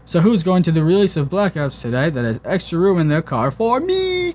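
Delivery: overacted reading; mock reading of a post. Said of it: "his post should say".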